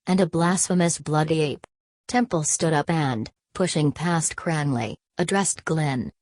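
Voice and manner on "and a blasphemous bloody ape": "blasphemous bloody ape" with mild emphasis; emphatic. A narrator's reading. Cranley adds to his insult of Glenn, with emphasis. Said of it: "repeated with emphasis".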